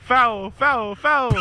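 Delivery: possessed, high and loud; demonic voice. Real, not acted. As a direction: call it out like a possessed ref. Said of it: "He did a demonic voice!".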